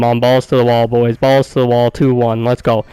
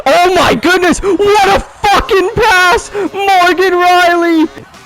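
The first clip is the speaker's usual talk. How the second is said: ecstatic shout; slower than usual. Real, not acted. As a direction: howl in amazement at the pass. Amazing pass for goal.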